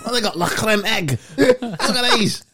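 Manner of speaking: high, squealing excited mimicry; mock excited. Mate imitating friend finding British snacks in France, high and excited. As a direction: squeal over the snacks like a kid.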